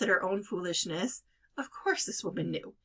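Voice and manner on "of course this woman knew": usual speaking voice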